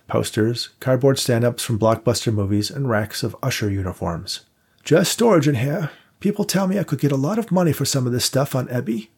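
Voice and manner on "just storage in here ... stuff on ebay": put-on higher-pitched, genteel old man's voice; an old vaudeville house keeper showing guests around; old theatre manager. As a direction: play the elderly manager, courteous and unhurried. Victor showing the storage room.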